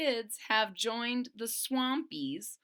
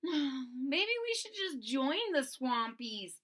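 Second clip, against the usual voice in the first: slow, higher worried friend; timid Stego; 4 semitones higher, slower than usual. Acted. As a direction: suggest it hesitantly.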